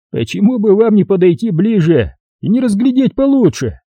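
high, sarcastic policeman; mock him while sending him off; mocking cop Jerry. A narrator's reading. (полицейский насмешливо отвечает рассказчику)

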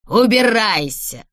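hoarse, drawn-out shout from sleep; sleep-hoarse man. A narrator's reading. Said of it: "сказал хриплый ото сна мужской голос". (хрипло, спросонья, протяжно)

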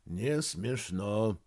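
grumbled. Acted. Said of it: "буркнул Вениамин Витальевич".

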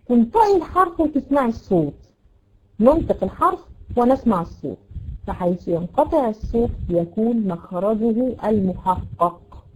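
ordinary talk

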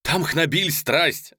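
high, loud, worked-up; breathless excitement. A narrator's reading. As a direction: blurt out news from the battle. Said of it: "задыхаясь, говорил он".

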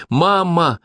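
high call of Mama. A narrator's reading. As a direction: call down the line. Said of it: "окликнула она".

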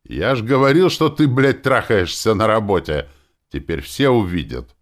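a gloating punk with a cracking voice; cracking tenor. A narrator's reading. Pimply youth gloating from above the counter, cracking tenor. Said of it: "ломкий тенорок".

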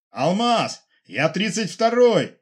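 high, loud, slow call sign; radio call. Acted. Pilot calling base. (позывной громко в эфир)

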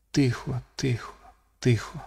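hushed, near-silent calming; inner voice. Acted. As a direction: whisper it to yourself. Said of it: "подумалось Люку".

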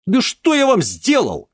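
very high, loud indignant cry; indignant outburst. Acted. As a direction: flare up at him. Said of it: "вскинулся Денис".

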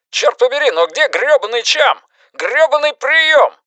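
high, furious swearing; angry cursing. Acted. Base commander cursing in frustration.

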